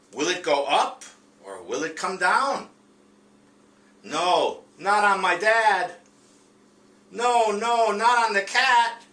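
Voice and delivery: reading the dog's panicked lines to the class, high and loud; excited dog. Acted. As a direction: cry out No as the ball heads for dad and the cat. Teacher voices dog, ball chaos.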